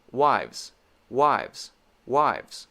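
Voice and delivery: "Wives" said fast as one tight syllable; quick wives. Shown as a demonstration. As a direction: rattle off "wives" quickly with lip-teeth V. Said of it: "but I am doing it quickly".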